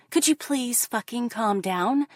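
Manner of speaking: pleading again, patience gone, pushing up in pitch; the same plea snapping into frustration; mock exasperated plea. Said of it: "they tell me".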